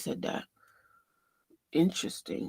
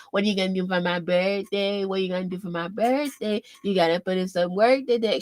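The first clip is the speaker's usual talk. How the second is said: put-on whining kid. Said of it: "sounds like a whining kid".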